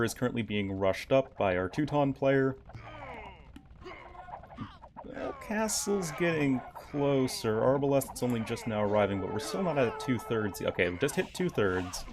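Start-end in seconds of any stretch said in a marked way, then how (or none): none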